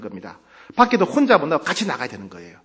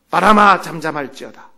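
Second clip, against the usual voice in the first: commanding rebuke; 4 dB louder than usual. Acted. Jesus rises and rebukes the wind, commanding. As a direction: order it down with authority. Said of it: "바람과 파도를 꾸짖으신".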